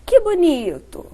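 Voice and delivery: bright, warm praise; admiring tone. Shown as a demonstration. Speech therapist demonstrating praising intonation. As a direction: say it as real delight. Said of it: "eu coloquei uma entonação diferente".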